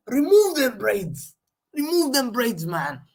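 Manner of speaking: high, loud and slow; fed-up fan shouting; slow exasperated yell. Real, not acted. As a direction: drag each word out at the screen. Repeating the demand, drawn out.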